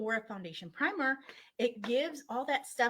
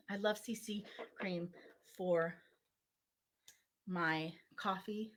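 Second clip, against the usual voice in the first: whispered aside; 4 semitones lower, 5 dB quieter than usual. Acted. Playful whispered aside about coffee.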